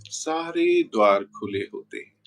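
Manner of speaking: unhurried meditation guidance with long pauses; guided meditation. Real, not acted. Guru settling viewers into Navratri meditation, measured guided-meditation voice. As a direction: lead them gently inward, phrase by phrase, leaving long silences.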